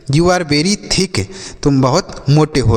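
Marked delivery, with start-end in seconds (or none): 0.1-1.2 very slow, each word clear; slow model sentence. Shown as a demonstration. Teacher slowly models "You are very thick" to a chubby friend. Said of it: "तो आप उसे बोल सकते हैं".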